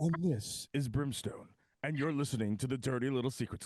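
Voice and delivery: news anchor voice. Acted. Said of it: "news anchor voice".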